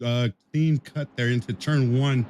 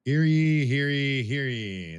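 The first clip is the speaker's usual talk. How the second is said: bailiff; much slower than usual. Pretend. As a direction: call the court to order. Town crier opening.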